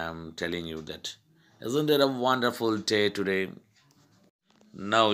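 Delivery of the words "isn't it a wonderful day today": higher-pitched exclaiming question; dramatic emphasis. Shown as a demonstration. Teacher showing students a dramatic effect, exclaimed with emphasis. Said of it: "a dramatic effect".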